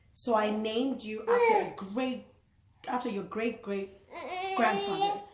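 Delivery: crying while reading aloud; tearful. Real, not acted. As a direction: voice breaking with tears.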